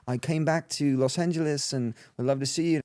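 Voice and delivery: lightly voiced Australian caller; imitated Australian accent. Caller back in Los Angeles, imitated Australian accent. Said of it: "Australian accent".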